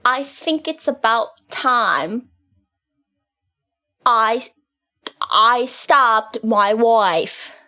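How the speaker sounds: slow, halting Essex practice; attempted Essex accent. Shown as a demonstration. Student practising alone, slow attempted Essex accent. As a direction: feel out each Essex vowel slowly. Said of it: "your new Essex accent".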